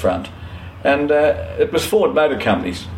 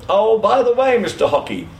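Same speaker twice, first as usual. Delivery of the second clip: loud call; 7 semitones higher than usual. Retold or imitated. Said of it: "in a fairly loud voice".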